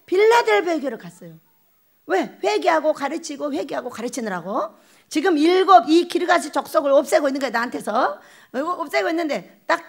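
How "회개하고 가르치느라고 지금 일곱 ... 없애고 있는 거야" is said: normal talking voice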